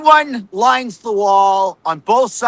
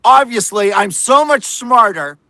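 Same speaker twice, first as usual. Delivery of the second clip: condescending, superior mock reporter voice; smug reporter mockery; 2 semitones higher than usual. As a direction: parody a smug know-it-all talking down. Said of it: "their tone of voice is like".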